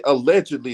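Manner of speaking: allegedly leaned on a little; stress on allegedly. Shown as a demonstration. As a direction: put a slight stress on allegedly. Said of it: "I do stress the word allegedly".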